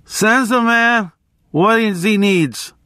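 high, drawn-out holler to the bartender; stretched-out barroom yell, not full volume; mock scream. A narrator's reading. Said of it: "nodded sympathetically and screamed".

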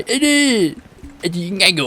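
high, mocking shout of a villager; mock villager yell. Streamer imitating a villager yelling on the bridge, mock shout. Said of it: "มันจะมีคนนั่งอยู่ตรงนี้ แล้วก็โวยวาย".

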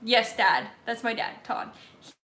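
ordinary delivery

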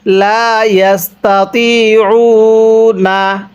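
slow, drawn-out Arabic recitation; ধীরে টেনে তিলাওয়াত; Quran recitation. Shown as a demonstration. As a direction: chant it slowly for the class to follow. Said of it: "আমার সাথে পড়ুন".

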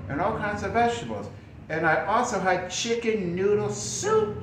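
walk through it as an example; model answer. Shown as a demonstration. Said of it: "Or you could say".

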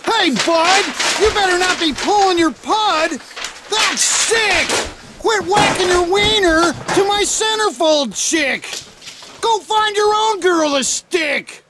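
disgusted yelling at intruder; angry scolding. Acted. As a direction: shout him out of the room.

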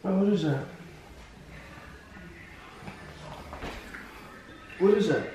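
talking with a numb tongue; words blurred by a numb mouth. Real, not acted. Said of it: "I can't feel my tongue".

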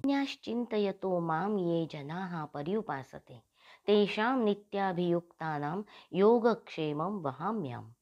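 slow, measured shloka recital; Sanskrit verse recitation. A narrator's reading. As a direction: recite the scripture slowly, drawing out syllables. (संथ लयीत श्लोकपठण)

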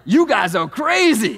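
slow, loud cartoon zebra line; toy zebra voice. Pastor imitating the kids' talking zebra toy, slow and loud. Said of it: "And he'd say it just like that".

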